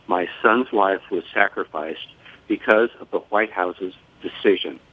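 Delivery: measured reading of a solemn statement; prepared statement. Real, not acted. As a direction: read your written tribute aloud, pausing between sentences. Reads prepared statement aloud.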